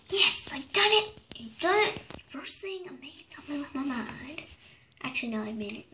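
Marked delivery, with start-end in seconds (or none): 0.1-4.4 excited whisper. Acted. Thrilled her magic worked.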